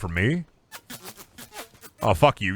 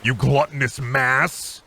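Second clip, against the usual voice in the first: mock insult.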